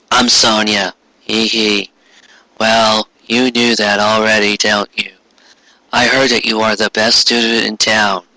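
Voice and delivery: Sonia's voice. A narrator's reading. Sonia talks to Ami.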